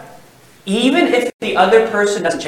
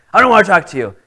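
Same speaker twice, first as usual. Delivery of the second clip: curt refusal; 2 semitones higher, 6 dB louder, much faster than usual. Retold or imitated. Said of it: "Literally what he said".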